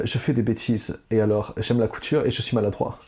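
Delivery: French with a German accent. Shown as a demonstration. Quiz host impersonates a mystery figure for contestant, German accent. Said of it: "C'était, c'était l'accent allemand que t'as fait".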